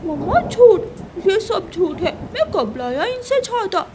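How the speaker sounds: high, giggly fake denial; laughing denial. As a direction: laugh while lying. Crow denies lie to mother.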